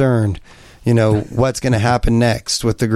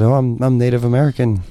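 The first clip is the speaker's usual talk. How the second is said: straight face. Retold or imitated. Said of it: "with a straight face".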